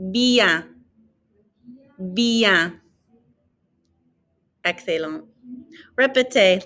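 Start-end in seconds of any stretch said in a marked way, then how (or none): 0.1-2.8 "Bien" with muffled N; model word. Shown as a demonstration. Teacher models well for students to repeat. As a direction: say "Bien" clearly, twice. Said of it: "Or just well".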